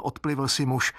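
ordinary delivery, nothing marked

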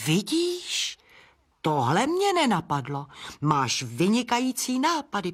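sudden high squeak of realization; squeaking bat. Acted. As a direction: squeal it, pleased at the idea. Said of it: "pískl netopýr". (potěšené písknutí, vysoko)

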